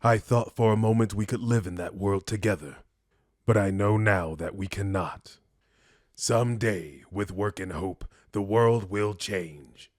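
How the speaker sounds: measured, restrained parting speech; noble mutant saying farewell. Acted. Mutant telling a loved one they must part, solemn and restrained. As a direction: let them go gently but firmly.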